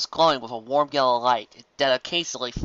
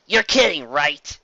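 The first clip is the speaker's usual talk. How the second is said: shouted; 5 dB louder, slower than usual. Acted. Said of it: "Rainbow shouted from behind".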